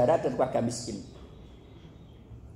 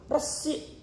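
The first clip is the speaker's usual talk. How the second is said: whispered word; 12 semitones higher, 6 dB quieter than usual. Acted. Whispered emphasis.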